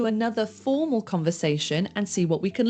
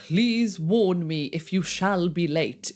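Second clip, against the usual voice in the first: a slightly slowed, mildly stilted bookish line; stilted book English. Shown as a demonstration. Teacher mocking bookish English for learners, lightly stilted. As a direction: read it like old-fashioned textbook English, a touch slower. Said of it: "we don't need to talk like we're in a book".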